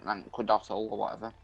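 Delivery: halting read-aloud from an article. Acted. Streamer reads an urban legend to a friend, reading aloud. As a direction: read it out to a mate, stumbling a little.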